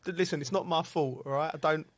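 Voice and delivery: mock defensive. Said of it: "I'm thinking, like".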